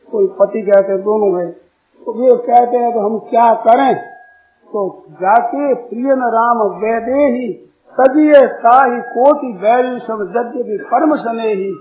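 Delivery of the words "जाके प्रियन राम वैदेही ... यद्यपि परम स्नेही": devotional verse, slow opening line; verse recitation. Real, not acted. Preacher quoting the saint's reply to Mirabai, measured recitation. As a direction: recite the couplet in measured phrases.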